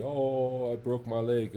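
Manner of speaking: mild mock wail of a hurt son; a son calling out "Oh, I broke my leg"; child crying out. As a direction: son to father, mild mock cry of pain. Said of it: "my son comes screaming to me".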